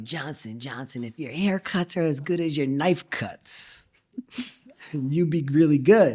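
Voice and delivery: put-on a slow French-accented chef, lightly done; hint of a French accent, unhurried. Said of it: "With a French accent?".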